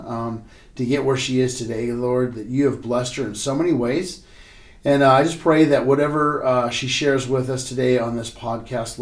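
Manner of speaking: earnest prayer. Real, not acted. Pastor praying over Robin before the podcast, earnest prayer. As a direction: pray it over her sincerely.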